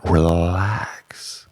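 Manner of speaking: soft whispered relax. Acted. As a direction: breathe it out soothingly. Whispered soothing command.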